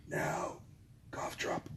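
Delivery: hoarse whispered superhero; whispered Batman impression. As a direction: whisper it like a caped vigilante. Hoarse Batman asking Alfred for lozenge.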